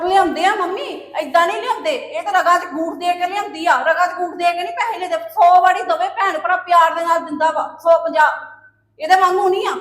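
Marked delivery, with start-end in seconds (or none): 5.3-9.7 louder heated protest; shouting back. Acted. Younger daughter-in-law shouting back at her mother-in-law, loud.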